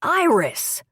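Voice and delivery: high, urgent cry of her name; frantic call. A narrator's reading. Husband bursting in, frantic, calling his wife's name. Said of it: "looking frantic".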